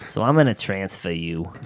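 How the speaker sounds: lightly voiced scratchy Bostonian lady; hint of a no-nonsense Boston lady; scratchy Boston voice, mock firm; Donna. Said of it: "such a scratchy voice".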